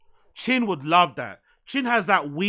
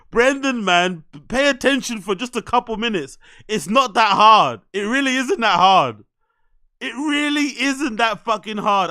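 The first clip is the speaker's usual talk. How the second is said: exasperated scolding; 3 semitones higher, 5 dB louder than usual. Real, not acted. Scolding Brendan through the screen.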